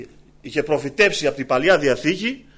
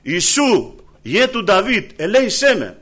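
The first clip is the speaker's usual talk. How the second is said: crying out; 4 semitones higher, 4 dB louder, slower than usual. Retold or imitated. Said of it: "Και φωνάζει".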